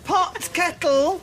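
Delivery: very high, drawn-out retort; indignant retort. Acted. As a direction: throw the accusation straight back. Retort in an acted row.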